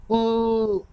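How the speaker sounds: long, high wail of pain; acted high-pitched howl of pain; pained cry. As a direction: cry out "ooh" as if pricked. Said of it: "दर्द से चिल्ला रही थी".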